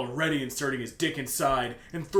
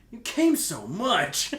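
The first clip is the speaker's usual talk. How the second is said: hammed-up squeal; 7 semitones higher, 4 dB louder, much slower than usual. Acting fanfic line.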